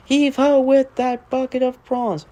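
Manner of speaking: put-on high hearty old sea dog calling out; sing-song shanty refrain, hearty; salty sailor voice. Narrator voicing Salty the dock diesel, hearty old sailor.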